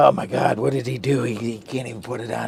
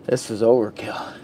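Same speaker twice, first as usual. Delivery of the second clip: whisper. Real, not acted. Aside about the glare.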